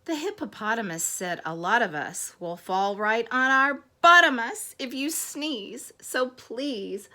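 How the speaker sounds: lilting rhymed storybook reading; story read to children. Acted. Bees complain of the last sneeze, storybook reading. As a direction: read the rhyme aloud with playful weight on each beat.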